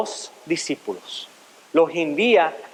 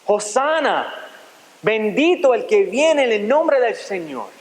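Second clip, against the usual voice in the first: crowd's acclamation; 3 semitones higher, slower than usual. Acted. Preacher reading the crowd's welcome for Jesus, mildly proclaimed. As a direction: read it as a restrained jubilant call. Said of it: "daban voces diciendo".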